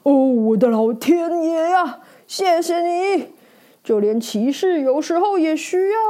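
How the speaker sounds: a knight jumps with fright, then thanks the snake; startled knight. Acted. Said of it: "骑士吓了一大跳".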